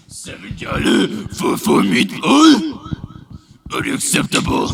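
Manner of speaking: put-on high, loud, slow caricature of an Asian accent; hammed-up outrage in mock Asian accent; mocking stereotyped Asian accent. Imitated complaint over four meatballs, mocking Asian accent. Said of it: "very stereotypical accent".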